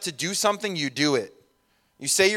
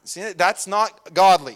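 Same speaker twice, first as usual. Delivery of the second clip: slow, louder, pointed: that's not godly; stern correction; 4 semitones higher, 6 dB louder, slower than usual. Shown as a demonstration. Pastor correcting his own example, slow and pointed. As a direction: spell out the lesson with weight. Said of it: "Let me say that as an example".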